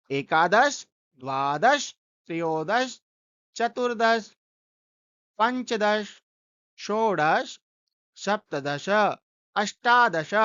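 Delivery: teacher repeating the count for students to follow; recitation repeated. Shown as a demonstration. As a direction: go through एकादश to विंशतिः again, steadily. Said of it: "इसका उच्चारण कर लेते हैं।".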